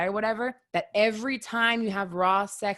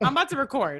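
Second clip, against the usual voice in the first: put-on irritated, annoyed voice, higher pitch; 5 semitones higher than usual. Retelling a phone reply to a caller while pissed off: imitating her own annoyed self. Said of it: "pissed off too".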